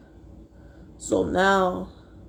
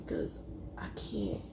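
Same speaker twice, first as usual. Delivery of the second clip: choked up; 15 dB quieter than usual. Real, not acted. Crying while telling her story.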